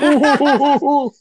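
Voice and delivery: high mocking ooh ooh; mock his silly reaction; mocking McCarthy. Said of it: "He's like".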